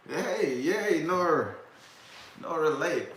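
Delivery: high, loud happy welcome to a viewer; light up as a friend joins the stream; excited greeting. Real, not acted. Streamer cheerfully greeting Nora as she joins, high and loud.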